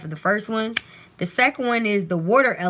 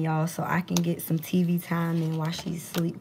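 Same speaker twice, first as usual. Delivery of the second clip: whisper; 5 dB quieter than usual. Real, not acted. Whispering so her sleeping daughter Chosen won't wake. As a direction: drop to a breathy whisper, barely voiced. Baby asleep, keeps voice down.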